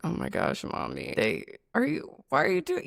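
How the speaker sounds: put-on a mortified child whining at mom; cringing kid. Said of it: "sometimes I'd be like".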